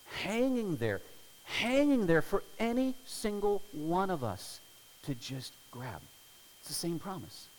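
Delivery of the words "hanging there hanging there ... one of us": impassioned stress. Real, not acted. Preacher stressing God's waiting promise.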